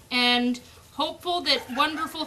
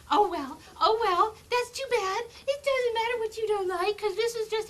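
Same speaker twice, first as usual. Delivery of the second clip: teasing; 7 semitones higher than usual. Real, not acted. Teasing puppy, dismissing its complaint.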